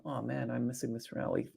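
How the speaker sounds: mock lament. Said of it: "those of you that are saying".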